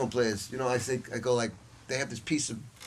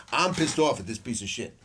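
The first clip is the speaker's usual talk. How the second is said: re-enacted irritation, punched up louder; pissed off; 4 dB louder than usual. Teacher reliving a bad night with his horn, pissed off. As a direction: let last night's frustration burst out. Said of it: "I was really pissed off at it".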